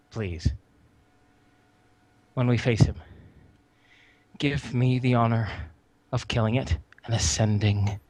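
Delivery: hushed reverence, no jitters; extremely calm. Acted. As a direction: ask with solemn, settled calm. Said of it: "he's actually extremely calm at this point".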